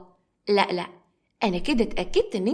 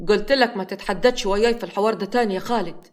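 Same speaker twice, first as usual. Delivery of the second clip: annoyed. Acted. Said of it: "وكان متعصب جدًا".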